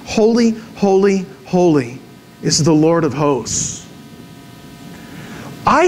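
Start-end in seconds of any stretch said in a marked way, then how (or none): 0.1-3.8 seraphim's cry. Acted. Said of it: "then they say this".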